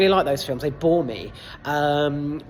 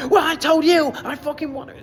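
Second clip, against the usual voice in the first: much higher and louder, a mock teenage retort; bratty American kid; 11 semitones higher, 5 dB louder than usual. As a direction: snap back like a sulky American son. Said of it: "American child".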